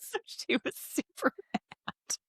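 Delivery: hushed, unvoiced half whisper; whispered aside. Real, not acted. Friend gossiping about an angry neighbour in a hushed whisper. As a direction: drop to a conspiratorial whisper.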